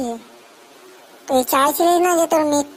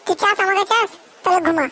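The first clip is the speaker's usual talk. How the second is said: put-on scolding girlfriend; 2 semitones higher than usual. Girlfriend scolds boyfriend, higher voice.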